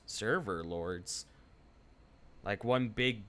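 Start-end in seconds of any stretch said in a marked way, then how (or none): 0.1-1.3 slow, lower incredulous repeat; puzzled echo. Real, not acted. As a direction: repeat it back, baffled and slow.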